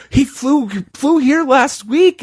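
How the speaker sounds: very high, slow and pleading; insistent quote. Retold or imitated. Doctor pleading her story is true, very high and slow. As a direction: stretch it high like you're begging belief.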